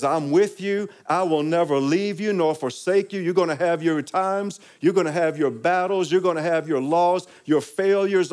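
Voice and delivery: fervent sermon voice of God's promise; rising preaching. Acted.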